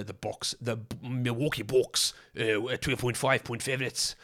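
a slow, clumsy South African accent, badly done; terrible South African accent. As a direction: put on a bad South African accent and drag it. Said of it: "that was a terrible South African accent".

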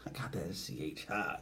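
hushed whisper. Real, not acted. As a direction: whisper it to yourself. Muttering aside.

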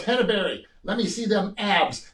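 lightly voiced demanding publisher; imitating Joe Weider. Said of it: "he goes".

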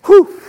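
cold whew. Retold or imitated. Stepping out into freezing cold.

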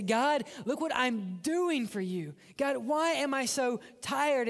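mock-weary plea to God, slow and rising; acted complaint. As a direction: draw out a put-upon protest to God.

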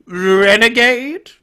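high, slow, rising disbelief; awed villain. Acted. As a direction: ask it loud and drawn out, starstruck. Dewey awed by the name.

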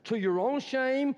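furious father's scolding; shaming rebuke. Acted. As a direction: shame him with each word. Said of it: "he's shaming him".

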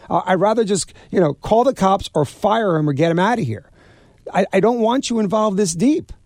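high, urgent retold plea; alarmed pleading. Holding Bobby back after the ice pick, alarmed high plea. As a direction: beg him to stop, voice climbing.

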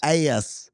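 "Ass" said as "ay-ess"; mimicked two-syllable "Ass"; extra Y in ass. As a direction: echo "Ass" with a Y glide. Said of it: "We put that extra Y in ass".

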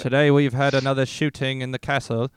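British newsreader, slipping toward Australian; attempted British accent. Reporting mock news from the castle, shaky attempt at British accent. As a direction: put on a wobbly British accent. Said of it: "Can you do British for one sec".

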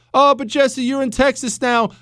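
high-pitched imitation of a protesting listener; mock objector. Voices listeners objecting to him.

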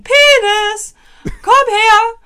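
loud, high-pitched dog commands; calling a dog. Acted. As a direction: shout short orders as if to a dog. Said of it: "den hätte man so gerufen".

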